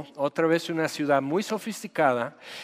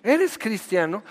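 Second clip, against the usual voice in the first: higher, shocked question; incredulous; 5 semitones higher than usual. Retold or imitated. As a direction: ask it as if caught out. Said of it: "ya te diste un balazo". (pregunta incrédula, más aguda)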